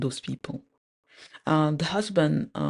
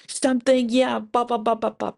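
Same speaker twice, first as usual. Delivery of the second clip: high, louder, urgent imitation of a caller; mock urgent plea; 7 semitones higher, 4 dB louder than usual. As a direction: imitate someone pressing urgently, pitched up. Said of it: "the lady's basically urgently saying".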